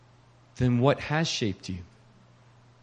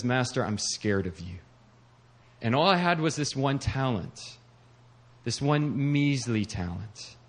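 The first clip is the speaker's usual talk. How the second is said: softer, hushed voice of a frightened servant; scared servant; 2 semitones lower, 4 dB quieter than usual. Acted. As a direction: shrink back as the servant afraid of his master. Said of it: "I just kind of voiced it there".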